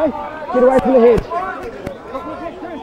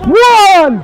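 shouted count; 4 semitones higher, 5 dB louder than usual. Real, not acted. Referee calling tackle count.

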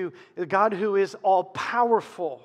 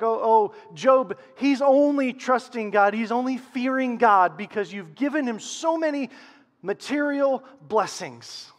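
lightly acted accuser, higher and louder; Satan; 4 semitones higher, 5 dB louder than usual. Satan accusing Job before God, lightly acted challenge. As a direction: make a raised, pushy accusation, lightly in role. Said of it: "Satan's like".

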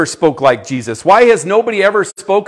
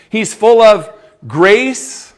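louder, slow proclamation, rising on of; proclaiming; 5 semitones higher, 4 dB louder, slower than usual. Acted. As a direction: ring it out to the congregation. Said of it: "And what is Jesus full of".

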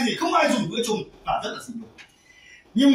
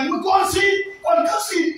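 insistent plea; 8 semitones higher than usual. Acted. Preacher acting a stubborn believer asking God, raised plea. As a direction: press the request, raised voice.

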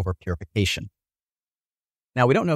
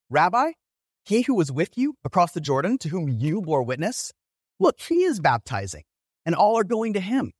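mildly indignant scripture reading; 5 semitones higher than usual. Acted. Disciples complaining to their rabbi about a rival, indignant. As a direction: read it as an aggrieved complaint, voice lifted. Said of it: "You can almost hear the indignation".

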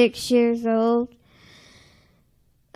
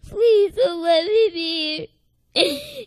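tearful plea; 4 semitones higher than usual. Retold or imitated.

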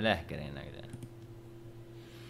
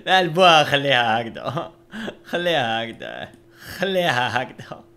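insisting loudly; 3 semitones higher, 8 dB louder than usual. Real, not acted. Insists on keeping the mouth.

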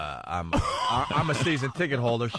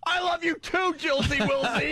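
put-on high sappy baby talk, much higher; mocking lovey voice; 13 semitones higher than usual. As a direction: coo it like a mushy drunk boyfriend. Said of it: "He, he writes".

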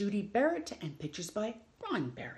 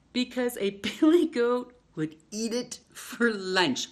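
lightly voiced goat; 3 semitones higher, 7 dB louder, slower than usual. Goat eats the clothes.

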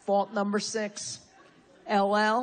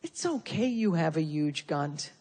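mock self-compassion. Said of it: "with a little self-compassion and said".

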